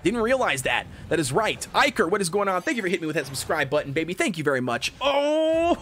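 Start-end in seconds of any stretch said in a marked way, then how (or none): 5.0-5.8 very high whooping celebration; ecstatic squeal. Real, not acted. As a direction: squeal the words through whoops. Pulls second copy.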